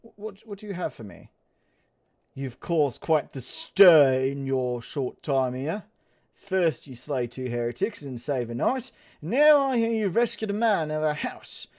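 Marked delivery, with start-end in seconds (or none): 2.3-11.7 lightly voiced formal British noble; measured, stately delivery with slow openings; haughty noble Portalane. Reads Portalane's lines in character.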